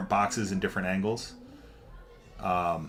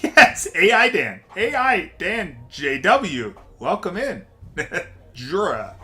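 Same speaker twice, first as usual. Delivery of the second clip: higher, louder, slow laughing welcome; 8 semitones higher, 8 dB louder, slower than usual. Real, not acted. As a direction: laugh your way through the greeting. Laughs on getting the name right.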